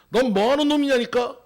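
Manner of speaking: shouted demand. Acted. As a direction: bellow it like an impatient soldier questioning a captive. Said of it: "이렇게 소리 지릅니다".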